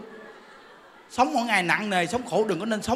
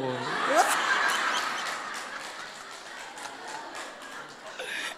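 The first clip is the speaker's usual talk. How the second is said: laugh; 5 semitones lower, 5 dB quieter than usual. Real, not acted. Laughs after demo greeting.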